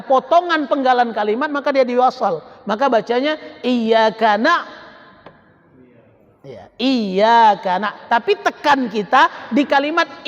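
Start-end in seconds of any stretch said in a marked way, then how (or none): 2.7-8.1 slow chant stopping on "na-"; wrong break demo. Shown as a demonstration. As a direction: show the forbidden cut after "iyyaka na-". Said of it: "Ndak boleh iyyaka". (contoh jeda salah di "iyyaka na-")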